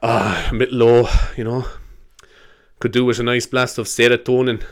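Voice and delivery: lightly put-on Scottish accent; a touch of mock Scottish. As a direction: play a Scot musing, lightly accented. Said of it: "saying serotonin in a Scottish accent".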